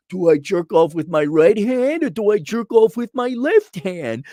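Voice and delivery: mocking whispered question. Mocking a clueless client, whispered. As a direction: hush it like a clueless confession.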